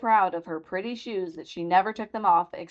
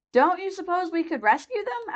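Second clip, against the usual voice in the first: put-on anxious girl; 11 semitones higher than usual. A narrator's reading. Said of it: "asked the girl anxiously".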